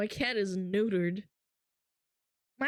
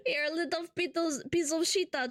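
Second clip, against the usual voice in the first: laughing mock phrase; 4 semitones higher, faster than usual. Repeating mock line laughing.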